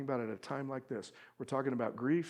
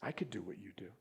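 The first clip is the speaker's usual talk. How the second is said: put-on childlike Job; 5 semitones lower, 11 dB quieter, faster than usual. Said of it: "he sounds like a child".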